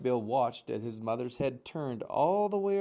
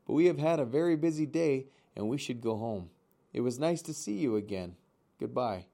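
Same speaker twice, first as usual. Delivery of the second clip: friendly. Acted. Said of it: "using a friendly voice".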